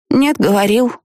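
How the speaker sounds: put-on high childish contradiction; stubborn little girl. A narrator's reading. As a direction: dig in like a stubborn kid. Child argues with mother.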